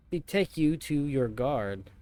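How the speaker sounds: slow, grand knightly declaration; archaic knight read. Shown as a demonstration. Player reading the knight's formal challenge, slow and grand. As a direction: deliver it like a stiff storybook knight. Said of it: "Who the f-, talks like that?".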